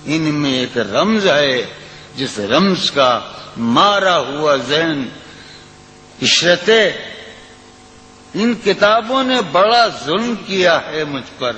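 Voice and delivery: lilting, sung-through recitation of a ghazal; poetry recitation. Acted. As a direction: recite it like at a mushaira. Recites the poem.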